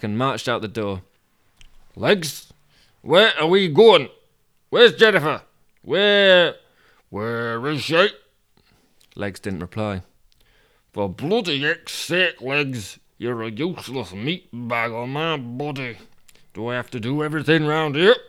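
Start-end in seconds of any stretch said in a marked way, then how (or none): 1.9-8.1 loud, high, drawn-out questions; demanding Toby. Acted. Toby questioning his silent legs, loudly impatient. 10.9-18.2 tag. Acted. Character berates his legs.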